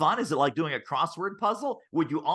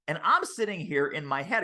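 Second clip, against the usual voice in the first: usual speaking voice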